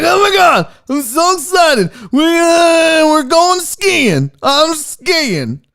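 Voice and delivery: put-on high, loud, shouted glee of an overjoyed kid; mock excited shout. Streamer voicing Steve Ballmer on skis, shrieking with joy. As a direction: yell it like skiing is the best thing ever. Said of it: "He's like".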